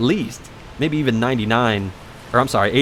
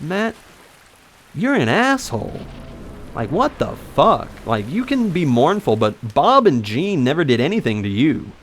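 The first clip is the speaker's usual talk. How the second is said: higher-pitched retold exasperation; indignant telling-off; 4 semitones higher than usual. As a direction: tell him off in disbelief, not shouting. Retold telling-off of his cousin.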